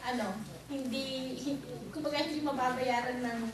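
loud, impassioned plea to the church; rising fervor, almost preaching; fervent testimony. Real, not acted. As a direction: lift your voice, pleading and thankful. Testimony climax, pleading to congregation.

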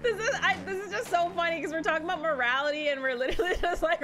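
high-pitched, laughing through the words; amused, giggling while explaining the joke; real laughter. Real, not acted. Gamer amused by robbing after morality talk, laughing.

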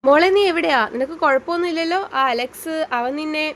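worried call. Acted. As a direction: urgently ask where she is. Worried lover on the phone. (ആകുലതയോടെ ഉറക്കെ)

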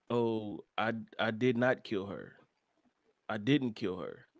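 low, soft imitation of private muttering; mumbling to himself. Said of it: "he's mumbling to himself".

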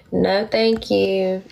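slow, whispered refusal; whispered no thank you. Pretend. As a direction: turn down the offer in a hushed, slow whisper. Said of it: "I do not wanna be in y'all's four-way".

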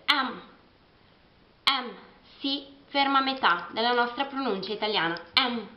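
M said as em; English M. Shown as a demonstration. Teacher drilling English M. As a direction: say M as em, cut short. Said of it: "si pronuncia come la L e la F".

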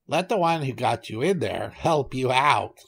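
lightly voiced goat; a hint of a goat character in the retort. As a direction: answer back as a goat, only slightly changed. Goat refuses the trapped tiger.

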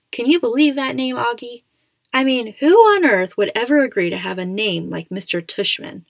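amused disbelief. A narrator's reading. Dad joking about name.

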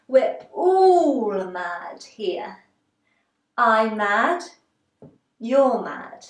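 lightly voiced, theatrical storybook cat. Teacher as the cat telling Alice, lightly theatrical and drawn out. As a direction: draw out "all", then punch each short phrase. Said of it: "And then the cat says".

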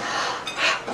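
short breathy gasp of relief; quick voiceless gasp; relieved gasp. Acted.

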